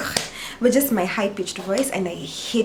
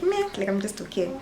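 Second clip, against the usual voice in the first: softer, offhand shrug; unbothered meh; 5 dB quieter than usual. Retold or imitated. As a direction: brush it off casually. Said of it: "right now I'm just like".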